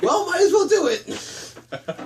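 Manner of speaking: high, slow mock resignation; resigned shrug. Actor giving in to the script, slow and resigned. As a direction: drag it out, giving up. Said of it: "It's like".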